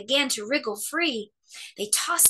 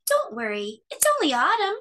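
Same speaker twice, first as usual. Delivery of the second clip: smiling reassurance; 9 semitones higher, 4 dB louder than usual. A narrator's reading. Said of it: "Mummy smiled".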